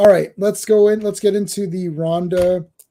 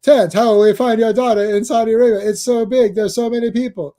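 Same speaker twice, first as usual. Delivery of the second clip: raised, singsong cartoon Canadian voice; Terrence and Phillip; 5 semitones higher, 3 dB louder than usual. Host as Phillip asking Terrence about the daughter, hammed-up cartoon worry. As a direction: play mock despair in a silly cartoon voice. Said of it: "My favorite Terrence and Phillip".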